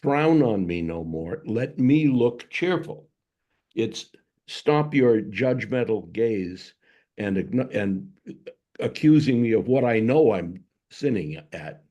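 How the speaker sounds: mock plea. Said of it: "a plea for mercy".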